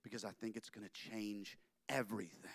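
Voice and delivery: hushed secret whisper to his wife. Acted. Walt telling his wife, whispered. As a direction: breathe it like a secret. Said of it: "he says".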